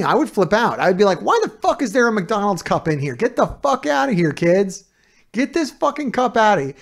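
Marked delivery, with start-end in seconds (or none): 1.2-6.7 mock irate rant, raised a bit higher. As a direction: play the fed-up roommate flipping out. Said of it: "I would get, like, irate about it".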